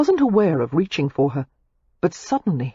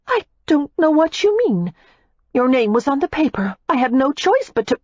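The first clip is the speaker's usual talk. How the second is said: put-on higher, heated young woman's voice; Daisy, furious; 9 semitones higher than usual. A narrator's reading. Daisy snaps back at Matthew in fury. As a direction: hurl the accusation back at him.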